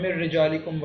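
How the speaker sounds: مر رجالکم with doubled r, no n; noon dropped. Shown as a demonstration. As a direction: merge مر رجالکم on the r. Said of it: "نون کی آواز نکالنی ہی نہیں ہے". (مر رجالکم میں را ملا کر پڑھیں)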